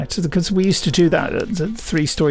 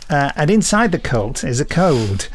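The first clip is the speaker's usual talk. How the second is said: put-on light northern English accent, chatty and pleased with himself; a mild Lancashire-Yorkshire twang throughout; generalised northern accent. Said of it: "This has been my generalised northern accent".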